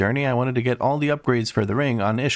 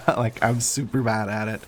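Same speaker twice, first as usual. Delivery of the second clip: laughing. Real, not acted. Laughing at own failure.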